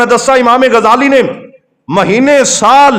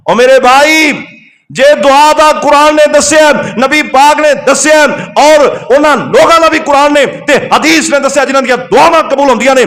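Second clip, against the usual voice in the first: impassioned preaching; 3 semitones higher than usual. Real, not acted. Preacher telling his brother what the Quran says, impassioned exhortation. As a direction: press each point in a raised preacher's pitch.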